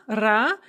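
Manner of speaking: lone "ra" syllable with a clear ah; isolated Russian syllable "ra". Shown as a demonstration. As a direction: say "ra" with an open ah vowel. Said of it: "the second O is pronounced a".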